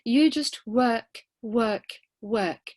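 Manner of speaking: slow, each work hammered; repeated for emphasis. Shown as a demonstration. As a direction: drive the word work home three times. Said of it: "the first figure of speech used was repetition".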